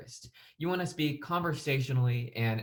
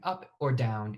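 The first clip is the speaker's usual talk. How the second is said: "up" pitched up, "down" dropped; tone going up, then down; slower than usual. Shown as a demonstration. Teacher showing students how tone changes, pitch up on "up", down on "down". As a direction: let the pitch rise on "up" and fall on "down". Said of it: "Notice that I did go up or down".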